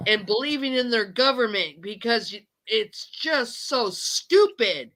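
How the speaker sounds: angry, upset outburst with stretched stresses; venting. Real, not acted. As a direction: let it all out, emphatic and fed up. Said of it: "I had to let that all out".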